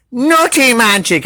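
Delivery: high, loud cheer; excited shout. Acted. Animals cheering the magic nuts, high shout. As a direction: cheer it together. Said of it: "everyone shouted".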